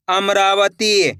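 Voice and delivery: अमरावती very slow, am-raa-va-teee; sounded out slowly. Shown as a demonstration. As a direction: stretch every part of अमरावती. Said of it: "एक अक्षर का उच्चारण करके".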